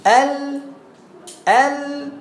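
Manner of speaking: teacher modelling the letter lam; lam demonstration. Shown as a demonstration. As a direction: sound out the lam tip pressed up. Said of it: "ها؟".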